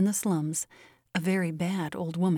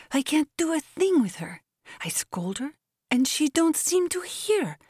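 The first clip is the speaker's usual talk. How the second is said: much higher, drawn-out pleading; pleading servant; 8 semitones higher than usual. A narrator's reading. Anna begs her mistress to scold Molly, high pleading. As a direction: complain and beg in a high, slow voice.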